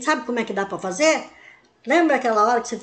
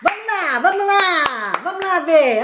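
welcoming coax; 2 semitones higher than usual. Shown as a demonstration. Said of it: "você fala".

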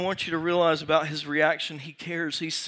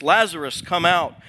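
raised, commanding call; loud cry; 2 semitones higher, 6 dB louder than usual. Acted. Jesus calling dead Lazarus from the tomb, loud cry. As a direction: call him out with a louder voice. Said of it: "cried out with a loud voice".

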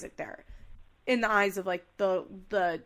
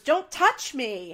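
firm warning; 3 semitones higher, 6 dB louder, slower than usual. Retold or imitated. Quoted argument, she pushes back.

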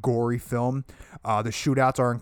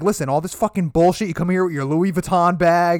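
mock stern scolding; 5 semitones higher, 6 dB louder than usual. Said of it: "he's like".

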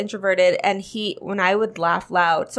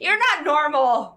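high-pitched incredulous teasing; can't believe it, voice pitched up; playful disbelief; 6 semitones higher, slower than usual. Real, not acted. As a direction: gasp it out in mock scandal. Disbelief at friend never texting exes.

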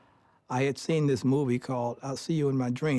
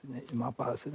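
normal talking voice

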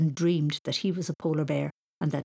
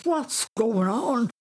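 face in snow; 5 semitones higher, 3 dB louder, much slower than usual. A narrator's reading. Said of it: "trying to speak with his face in the snow".

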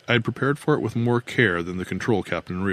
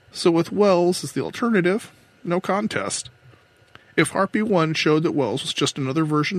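higher-pitched voice of a woman captain; control captain, confessing; 6 semitones higher than usual. Acted. Captain explains the plan hatched in bed, confessing. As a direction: confess it in a raised character voice.

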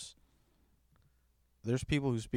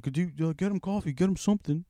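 pitched way up, mock fluster; flustered manager; 9 semitones higher, faster than usual. Worker imitates the panicked manager begging a teen, high mock fluster. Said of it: "The manager was like".

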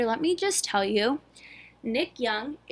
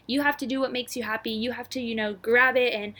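mock preaching.

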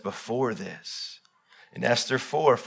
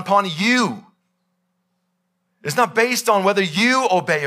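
God's voice rising into a loud, booming warning; commanding God, louder and higher; voicing God; 7 semitones higher, 4 dB louder than usual. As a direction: thunder it down as God laying out the choice. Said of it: "He says".

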